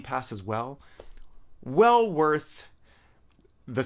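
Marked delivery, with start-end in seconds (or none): 1.6-2.6 breathy whispered aside, no voice. Real, not acted. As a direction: lean in and whisper it like a tip. Aside recommending the subscription.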